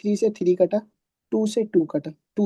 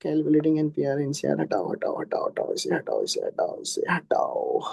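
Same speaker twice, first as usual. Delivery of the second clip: low, soft, creaky mumble; muttering to self; 5 semitones lower, 5 dB quieter than usual. Real, not acted. Teacher erasing the board, muttering "remove it" to himself. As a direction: mumble it low, fading almost to a whisper.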